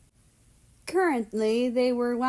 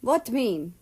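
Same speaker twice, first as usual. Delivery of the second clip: broken English; 2 semitones higher than usual. Acted. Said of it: "his broken English adorable".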